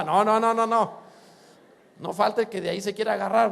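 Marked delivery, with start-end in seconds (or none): 0.0-1.1 loud repeated no; emphatic denial. Real, not acted. Preacher loudly rejecting the idea that Pablo drank. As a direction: cut the idea off firmly.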